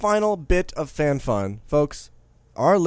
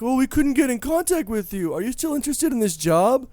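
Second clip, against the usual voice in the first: mock polite email voice; 10 semitones higher than usual. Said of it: "they're like".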